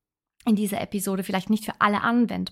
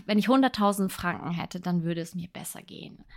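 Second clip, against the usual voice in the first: wistful wish; 2 semitones lower than usual. Shown as a demonstration. Podcaster showing listeners the wrong way to phrase a wish, wistful and deflated. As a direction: sigh it out like an idle, hopeless wish. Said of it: "Sondern du sagst".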